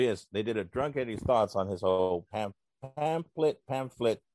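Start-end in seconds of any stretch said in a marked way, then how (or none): 3.0-3.6 "pamphlet" said as PAM-plit, higher pitched; pamphlet without the F. Retold or imitated. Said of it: "back and forth". 3.7-4.2 "pamphlet" said as PAM-flit. Retold or imitated. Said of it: "back and forth".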